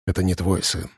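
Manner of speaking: hushed, barely voiced warning; whispered. A narrator's reading. Arkhip to Semyon, hushed whisper. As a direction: breathe it through the lips. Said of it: "шепнул Архип одними губами".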